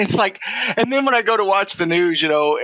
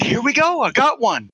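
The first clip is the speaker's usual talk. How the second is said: higher-pitched, pleased reenactment; excited retold discovery; 5 semitones higher than usual. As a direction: act out spotting a rare find. Delighted at finding another redneck.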